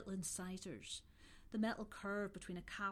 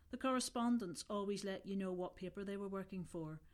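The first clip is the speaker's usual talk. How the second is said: plain reading voice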